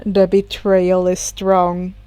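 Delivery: mildly bitter classmate, slow. Acted. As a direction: mutter it with a grudge. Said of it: "Tokoyami said bitterly".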